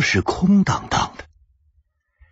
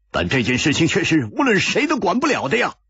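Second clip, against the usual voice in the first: through gritted teeth; 7 semitones higher, faster than usual. A narrator's reading. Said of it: "一点红咬了咬牙说".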